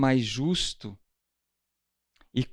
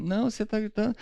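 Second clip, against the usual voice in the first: 1 mock accusing; 8 semitones higher, much faster than usual. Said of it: "Quem nunca ouviu alguém gritar assim".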